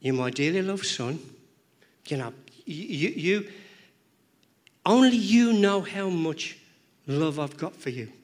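tender, pleading father; heavenly father telling his son he is loved. Acted. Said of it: "He's saying".

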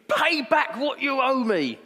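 high, loud and slow demand. Acted. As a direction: lean on him to pay up. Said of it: "he demanded".

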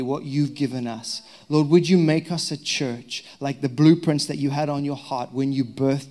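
earnest spoken prayer. Real, not acted. Pastor praying over the church before teaching, earnest. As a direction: pray it to God, sincere and fervent.

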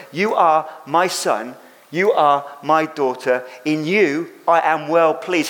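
slow, gentle affirmation; slow tender voice of God. Acted. Preacher voicing God to believers, slow and tender. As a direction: say it slowly and tenderly, like a father.

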